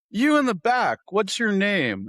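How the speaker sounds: high, loud call across the bar. Retold or imitated. A woman at the bar calls to him in the back, loud and high.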